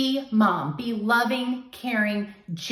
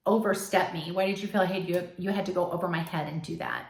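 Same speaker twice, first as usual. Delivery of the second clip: calm and polite. Pretend. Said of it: "talk to him as politely and calmly as you can".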